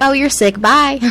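high, offhand brush-off; mock-callous guard waving someone away; dismissive mock guard. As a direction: toss off the sick prisoner like nothing. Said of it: "They were just like".

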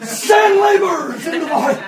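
loud, high cry with a laugh in it; laughing loud prayer. Retold or imitated. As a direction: shout the prayer through a chuckle. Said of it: "he didn't say ekbalo".

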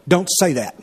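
understated stern command. Retold or imitated. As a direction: quote a firm warning without raising the voice. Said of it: "Very stern".

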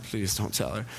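low, soft imitated aside; mock secretive plea under the voice; hushed plea. Friend begging him not to tell, hushed.

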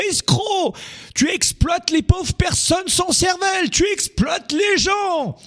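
very high, drawn-out mock protest; hammed-up squeaky outrage at the rich businessman; imitated French accuser. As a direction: parody an indignant crowd crying revolution. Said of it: "Et on te dit".

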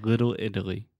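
"Little Italy" with both T's lightly flapped; teacher repeating "Little Italy" with D-like T's; model pronunciation. Shown as a demonstration. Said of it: "One more time".

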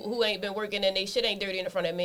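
usual speaking voice

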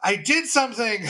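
high, slow, giddy relief; relieved excitement. Retold or imitated. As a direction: gush it out like a weight just lifted. Relieved reaction retold.

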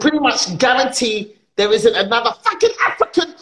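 high-pitched exasperated insistence; indignant rant. Acted. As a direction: build the protest, pitched high.

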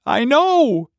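high, loud excited shout. Acted. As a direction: shout it out in delight. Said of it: "Joe shouted".

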